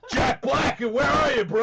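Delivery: loud, high hype bro voice; The Rock video voice. Retold or imitated. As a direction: call out like a hype host. Voicing The Rock.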